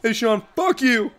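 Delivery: slow cheeky mock insult; impression of Kyle. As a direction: drawl the insult like Kyle would. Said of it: "That's not how Kyle sounds".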